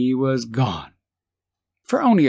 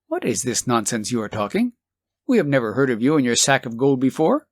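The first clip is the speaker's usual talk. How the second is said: mock cold; faster than usual. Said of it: "look coldly upon him and say".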